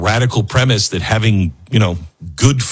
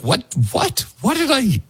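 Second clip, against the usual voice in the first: high, squeaky mock panic; mock shocked confusion; 13 semitones higher, 4 dB quieter than usual. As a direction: pretend you can't believe what you read. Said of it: "And I'm like".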